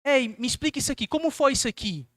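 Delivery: gently probing questions, lifted in pitch on the key phrases; questioning tone. Acted. Preacher models asking a brother what happened, in a questioning tone. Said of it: "eu vou com um tom de pergunta".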